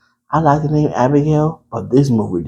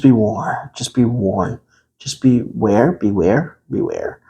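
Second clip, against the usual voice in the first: ominous; slower than usual. Acted. Ominous warning repeated.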